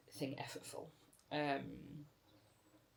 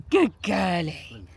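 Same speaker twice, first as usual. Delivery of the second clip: talking to a dog; 3 semitones higher, 19 dB louder, much slower than usual. Real, not acted. Praising the dog.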